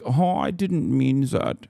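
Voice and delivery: mock-innocent German politician; German accent. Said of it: "the most annoying one who's like".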